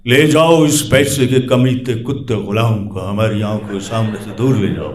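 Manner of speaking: commanding, fast, dramatic order; a hammed-up king's dramatic command; dramatic royal command. Shown as a demonstration. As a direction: banish the slave with scorn. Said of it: "ups and downs".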